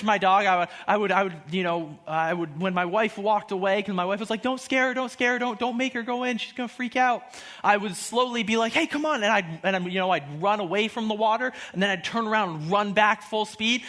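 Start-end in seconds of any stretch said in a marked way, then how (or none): 4.4-7.2 lightly voiced pleading wife; worried wife. Acting out wife's worried warning. 8.7-9.2 lightly coaxing a dog, higher pitch. Retold or imitated.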